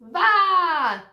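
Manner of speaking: vá shouted high and loud as a command; a loud, sharp command. Shown as a demonstration. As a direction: bark vá like an order. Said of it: "V A accent mark".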